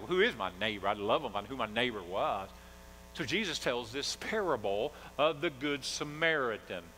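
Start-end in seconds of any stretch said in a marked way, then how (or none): 0.0-2.5 mild mock sarcasm, a touch lower; lightly sarcastic Pharisee. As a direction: needle him with a dry sarcastic question. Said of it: "kind of being sarcastic".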